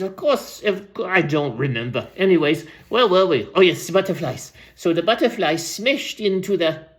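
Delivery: lightly voiced rambling old storyteller; aging storyteller. Old storyteller tells the crowd about butterflies, lightly put-on voice. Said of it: "I'll go back to Random's voice".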